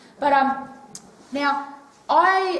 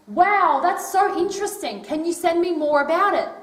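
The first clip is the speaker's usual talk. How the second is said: excited; 4 semitones higher, 4 dB louder than usual. Pretend. Suggested reply to a friend.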